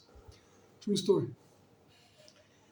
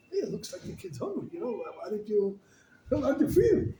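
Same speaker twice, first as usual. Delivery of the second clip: father's voice; 5 semitones higher than usual. Retold or imitated. Father voiced in retold story.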